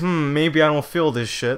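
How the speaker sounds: normal talking voice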